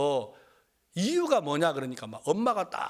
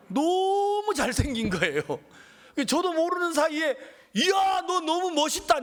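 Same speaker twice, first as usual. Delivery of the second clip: amazed admiration; 11 semitones higher, 3 dB louder than usual. Retold or imitated. Pastor blurting out admiration on first seeing the son. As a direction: gush like you can't help yourself. Pastor struck by son's looks.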